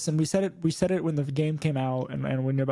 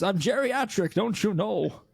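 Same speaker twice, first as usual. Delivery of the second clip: lightly voiced old man; a hint of a geriatric grump; 3 semitones higher, slower than usual. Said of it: "It's my old man voice".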